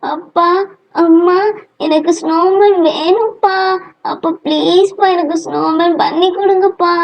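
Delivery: pleading whine. Acted. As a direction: wheedle a parent with stretched endings. Child begs father for snowman.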